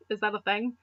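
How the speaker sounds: ordinary delivery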